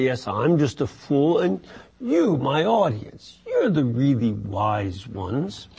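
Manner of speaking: a touch of mock humility; lightly sarcastic, playing the humble fool. Teacher voicing the ancient speaker to his class, mildly sarcastic. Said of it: "But there is this tone of sarcasm".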